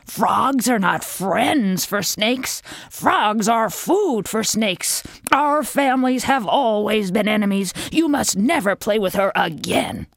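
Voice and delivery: a hint of an alarmed mother; stern mother frog. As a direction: lay down the law to your child. Mother Frog scolds her son.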